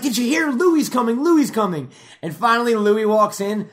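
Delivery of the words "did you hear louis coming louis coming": higher, louder thrilled chatter; excited gossip. Retold or imitated. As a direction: spread the news breathlessly. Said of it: "They're like".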